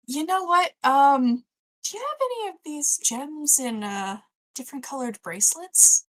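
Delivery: high, hopeful shopper; eager character voice. Acted. Player voices character to clerk.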